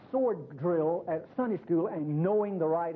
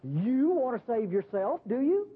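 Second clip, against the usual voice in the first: sarcastic; 4 semitones higher, slower than usual. Acted. Jesus mocks the man's self-reliance.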